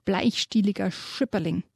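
lively reading to children, voicing the animals; storyteller's voice reading a children's book aloud; story narration. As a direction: read the dragon tale with relish to young listeners.

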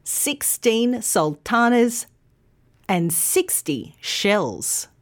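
put-on slow "sixteen" teen stressed, SIXty first; contrast stress. Shown as a demonstration. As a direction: model the pair. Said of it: "put it all together".

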